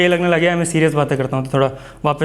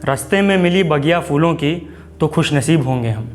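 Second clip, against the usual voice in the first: poem recitation; 2 semitones higher, slower than usual. Acted. Recites his first poem.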